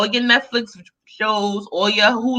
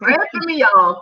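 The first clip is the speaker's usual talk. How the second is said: coughing fit; 5 semitones higher than usual. Real, not acted. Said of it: "I'm gagging".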